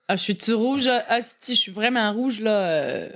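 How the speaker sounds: put-on flustered, in a light Québec accent; Quebec accent. Blushing woman's inner voice, in a light Québécois accent. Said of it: "Québécois pour Perrine et moi".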